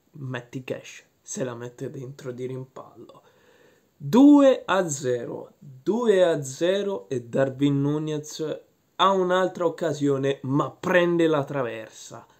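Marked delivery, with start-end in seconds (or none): 4.0-12.3 excited goal call. Acted. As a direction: call the goal like live commentary. Goal call in match recap.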